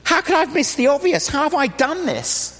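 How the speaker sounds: be appalled by your own blindness; sudden realisation. Acted. Prodigal son realising his ingratitude in the pigsty, dismayed. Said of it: "It suddenly comes on him".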